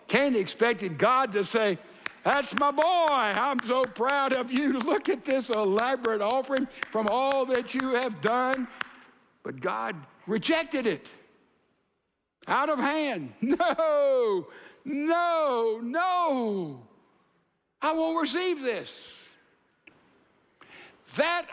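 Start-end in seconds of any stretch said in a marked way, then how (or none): 2.2-8.7 beam like a proud father, lifted up; proud father God. Acted. Preacher voicing the praise Cain expected from God, higher and proud. God's hoped-for praise voiced. 13.4-19.2 higher, firm repeated no; God refusing. Acted. Preacher voicing God rejecting Cain's offering, higher and firm.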